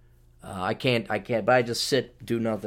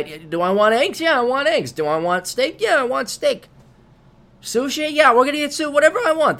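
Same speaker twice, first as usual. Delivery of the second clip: gleeful; 12 semitones higher, 4 dB louder than usual. Real, not acted. Gleeful list of foods.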